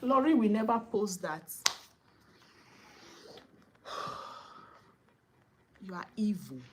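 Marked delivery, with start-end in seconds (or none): 3.9-4.4 soft, drawn breath out; quiet sigh. Real, not acted. Vlogger dismayed before condemning the mother, quiet sigh.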